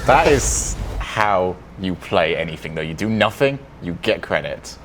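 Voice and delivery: low, slow put-on voice; Gibbs impression. Player mimicking a colleague for the panel, low impression. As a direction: drop the pitch, drag it out in imitation. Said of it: "I'm doing my Gibbs impression".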